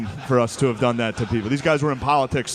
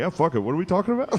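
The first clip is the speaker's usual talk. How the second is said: quick, higher clueless delivery; Donald Trump; 5 semitones higher, faster than usual. Retold or imitated. Candidate turning up unprepared to an event, quick high mock impression. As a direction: toss it off fast and carefree. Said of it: "showed up to the event like".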